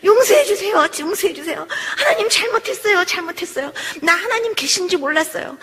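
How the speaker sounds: begging forgiveness in an urgent acted plea; imitated desperate prayer; tearful pleading, retold. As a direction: plead and repent in a rush of repeated apologies. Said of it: "잘못했다고 하나님 앞에 이렇게 빌고 우는데요".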